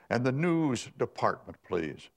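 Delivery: put-on high, affected Boston society accent; mock upper-crust Boston request; phony Boston Park Avenue accent. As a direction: mimic a haughty Park Avenue caller's accent. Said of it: "Boston Park Avenue accent".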